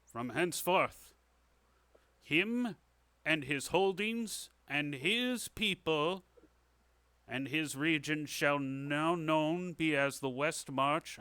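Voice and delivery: slow ceremonial proclamation; king knighting someone. Acted. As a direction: proclaim it grandly, pausing between phrases. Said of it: "holds out his sword and he says".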